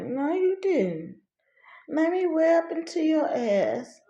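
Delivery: high-pitched mama comeback, drawn out; slow, high mock scolding. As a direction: imitate a mother threatening a whooping. Mother scolding, acted out.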